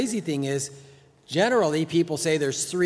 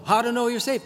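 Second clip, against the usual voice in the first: scoffing book title, pitched higher; 8 semitones higher, faster than usual. Retold or imitated. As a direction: read the title high with scorn. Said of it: "Same problem".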